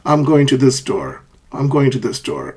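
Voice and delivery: level, neutral tune on "I'm going to this store"; level intonation. Shown as a demonstration. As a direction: say "I'm going to this store" as a simple statement, no rise. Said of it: "There is no rising or falling intonation".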